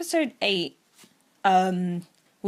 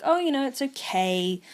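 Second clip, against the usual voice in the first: lightly acted, higher-pitched brave front; Chica; 5 semitones higher than usual. Chica hiding her upset from Rika, mildly forced cheer. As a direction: imitate reassurance through a put-on smile. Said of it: "she's putting on the smile".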